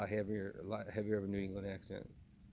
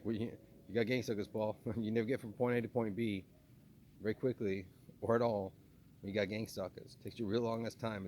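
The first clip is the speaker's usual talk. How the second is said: lightly imitated Boston accent; 3 dB louder than usual. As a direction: rib Paul in mock Bostonian. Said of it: "he would do a Boston accent".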